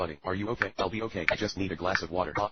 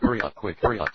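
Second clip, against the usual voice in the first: shouting; 6 dB louder than usual. Acted. Urgent shouting at children.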